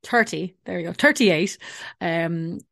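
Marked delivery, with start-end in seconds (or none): 0.0-1.6 "Thirty" said deliberately, on show; careful "thirty". Shown as a demonstration. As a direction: repeat "Thirty" as a pronunciation demo. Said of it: "So here I go again".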